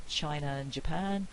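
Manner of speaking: "China and Japan" with a catch between China and and; no R, a glottal break before "and"; glottal stop. Shown as a demonstration. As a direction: cut the breath briefly after "China", then "and Japan". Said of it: "I can do it with the glottal stop".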